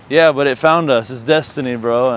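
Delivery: excited insistence. Retold or imitated. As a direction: sell it as fate, thrilled. Friend justifies keeping the cat.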